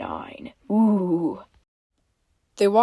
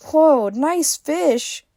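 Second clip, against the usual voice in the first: excited April; 8 semitones higher, much slower than usual. A narrator's reading. April voiced in story.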